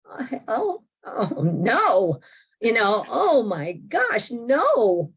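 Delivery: high, cracking mock dismay; a sudden moan of alarm; dismayed cry. Distressed thought, realising she's in hell.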